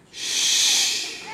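whispered shh; hush. Retold or imitated. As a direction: hush him gently. God hushes him.

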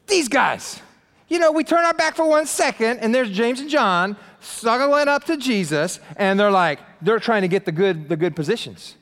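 high, indignant grumbling; griping at the ones who snuck ahead; indignant complaint. Retold or imitated. The ten disciples complaining about James and John, indignant and high. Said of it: "they became indignant".

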